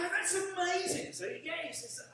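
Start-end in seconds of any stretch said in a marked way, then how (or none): 0.0-1.1 high, slow drawn-out amazement; amazed. Retold or imitated. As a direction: marvel at it, stretching the words. Telling old man his age amazes.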